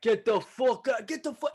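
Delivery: high mock yell at the mover; mock tough guy yell. Cement truck drivers yelling him out of the street, high mock yell. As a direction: holler like a rough New York guy.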